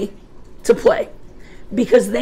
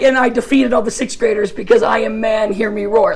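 mock macho boast; 2 semitones lower than usual. Preacher mocking his own story with a lightly hammed-up macho brag. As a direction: puff up and boast like a conqueror. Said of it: "this is like".

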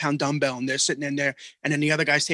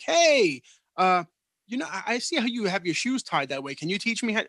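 mock clueless stranger; 4 semitones higher than usual. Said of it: "come up and be like".

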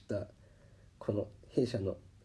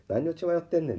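a touch higher self-rebuke; scolding himself; 6 semitones higher, 3 dB louder than usual. Retold or imitated. Tempted again by the buyer's offer, he mildly scolds himself. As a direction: shake off the temptation. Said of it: "って思うね".

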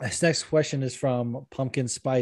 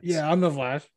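slightly raised fighter character voice; Stipe; 3 semitones higher than usual. Acted. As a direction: insist haltingly on a silly superhero identity. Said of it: "you talked about being the Flash".

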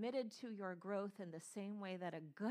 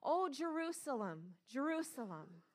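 grieving lament; 5 semitones higher, 5 dB louder than usual. Acted. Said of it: "I'll read this verse".

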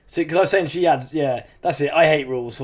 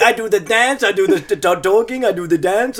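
mock dancer voice; 3 semitones higher, 4 dB louder than usual. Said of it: "that's what he was like".

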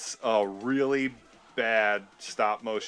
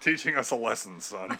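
stern father. Retold or imitated. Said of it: "the mommy sounds like a stern father".

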